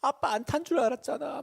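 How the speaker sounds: high, tearful child imitation; plaintive little-kid voice, acted; mock crying child. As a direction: imitate a child protesting through tears. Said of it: "그러면서 막 울어요".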